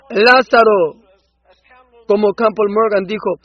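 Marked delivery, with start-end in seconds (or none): 0.1-1.0 a loud, commanding call of the name. Acted. Preacher voicing Jesus calling Lazarus from the tomb, loud call. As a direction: cry the name out toward the grave. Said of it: "Él clamó con fuerte voz".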